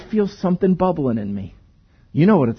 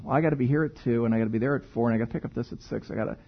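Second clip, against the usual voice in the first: muttered busy to-do list; 10 semitones lower, 12 dB quieter, much faster than usual. Pretend. Inner voice of busy mind.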